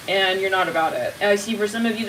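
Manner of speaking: ordinary delivery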